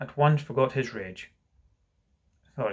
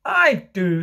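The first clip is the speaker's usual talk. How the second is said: higher, louder motherly insistence; lightly voiced reassuring mother; 7 semitones higher, 6 dB louder than usual. Mother answers the child nobody wants, emphatically reassuring. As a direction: insist it to comfort a hurt child.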